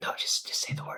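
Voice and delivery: quick quiet whisper. Retelling a murder-mystery game, the speaker quotes the other players in a whisper.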